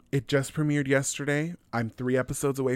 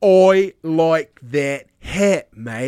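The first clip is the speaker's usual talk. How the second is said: mock Australian; 5 semitones higher, 12 dB louder, much slower than usual. Mock Aussie banter.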